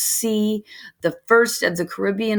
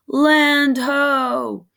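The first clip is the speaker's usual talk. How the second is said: louder, higher call of land ho; distant call; 7 semitones higher, 4 dB louder than usual. Acted. Lookout calling out to the ship, a raised shout. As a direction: call it out across the deck.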